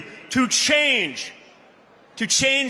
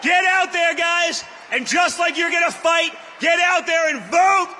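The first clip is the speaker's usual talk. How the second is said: rousing shouted call to vote; rally speech. Acted. Rally climax urging crowd to vote.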